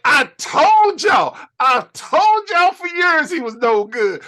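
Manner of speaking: Bobby Heenan rant. Retold or imitated. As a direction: yell it like an announcer proven right. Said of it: "Bobby the Brain Heenan".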